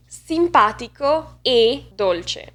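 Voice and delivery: Italian, "e" held tight and closed; closed E conjunction. Shown as a demonstration. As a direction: set off a closed "e" between the adjectives. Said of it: "an example of E as a conjunction".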